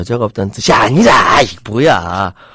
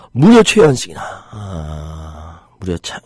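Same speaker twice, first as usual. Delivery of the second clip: ordinary delivery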